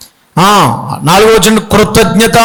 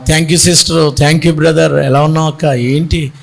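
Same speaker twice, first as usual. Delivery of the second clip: gentle greeting; 5 semitones lower, slower than usual. Retold or imitated. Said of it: "అంటే".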